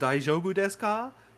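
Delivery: deliberately bad Japanese accent. Narrating a game, speaker voices Chris's question: bad Japanese accent on purpose. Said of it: "said that with a bad accent on purpose".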